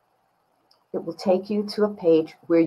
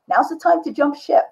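inner voice; 9 semitones higher than usual. Retold or imitated. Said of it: "that little voice to say".

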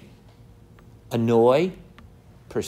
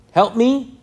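desperate plea; 8 semitones higher, 7 dB louder than usual. Retold or imitated. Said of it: "So we have this very".

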